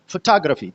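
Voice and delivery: फोटोग्राफी said fuh-TOG-ruh-fee; फोटोग्राफी with second syllable strongest, falling after; stress on second syllable. Shown as a demonstration. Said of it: "ये सबसे prominent syllable है".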